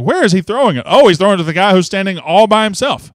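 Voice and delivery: mildly incredulous retelling; surprised recollection. Retold or imitated. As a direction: relive the moment of spotting him open. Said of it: "I was like".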